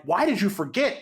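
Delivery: exasperated scolding, lightly acted; retold yelling. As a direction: imitate friends scolding him. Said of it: "them yelling at each other".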